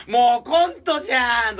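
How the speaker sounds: high, loud and drawn out, like a comedy punchline; exasperated inner outburst. Retold or imitated. Driving in circles with the senior, loud exasperated disbelief. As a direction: blurt it slowly, in disbelief it's a comedy sketch. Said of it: "とか思いながら".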